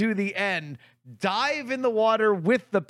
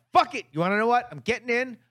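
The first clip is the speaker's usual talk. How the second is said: retold fed-up defiance, pitched up; defiant outburst; 5 semitones higher, much faster than usual. Angry customer deciding to swim anyway, retold defiance. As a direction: throw it all in, higher and emphatic.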